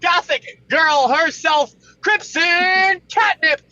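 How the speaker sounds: loud, fast morning show announcer; radio host. Acted. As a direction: hype up the show like a DJ. Introducing co-hosts on show.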